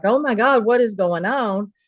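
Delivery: retold freaking out. Daughter retells Mama seeing the gun, mildly freaking out. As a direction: imitate a mom starting to freak out, without going full volume. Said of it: "Mama started freaking out".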